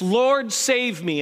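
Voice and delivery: mild shout on the first word, then easing; a lightly acted cry for help; retold shout. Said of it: "he shouted to Jesus".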